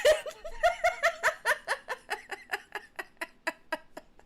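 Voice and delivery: shrieking high laugh; high giggle. Real, not acted. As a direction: burst into squealing laughter. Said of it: "that was so funny".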